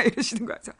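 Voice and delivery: ordinary delivery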